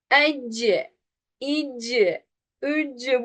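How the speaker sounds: "Ecci, icci, üccü" with an extra vowel after the c; wrongly adding a vowel. Shown as a demonstration. Teacher shows students' mistake, "Ecci, icci, üccü" with added vowel. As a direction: release "Ecci, icci, üccü" into a second syllable. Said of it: "hareke vererek okuma".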